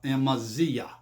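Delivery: Amazia said as "am-uh-ZEE-uh"; tentative foreign pronunciation. Shown as a demonstration. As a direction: stress the ZEE in Amazia, low voice. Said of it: "if I'm not saying that one hundred percent correctly".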